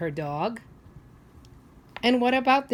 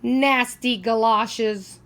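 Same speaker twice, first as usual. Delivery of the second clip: put-on grumpy old man; 3 semitones higher, 5 dB louder, much slower than usual.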